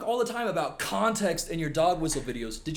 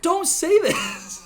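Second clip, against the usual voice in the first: high, loud, drawn-out plea; pleading shout, pitched way up; exasperated yell; 6 dB louder, much slower than usual. Real, not acted. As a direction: yell it in disbelief, stretching the words. Exasperated plea at video's poster.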